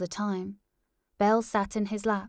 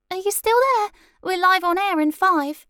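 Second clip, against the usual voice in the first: urgent loud call; 13 semitones higher, 10 dB louder than usual. Acted. Producer urging on phone.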